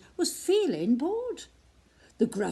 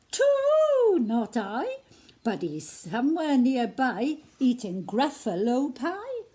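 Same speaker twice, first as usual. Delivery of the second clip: owl's voice; 3 semitones higher, 4 dB louder than usual. Acted. Owl answers.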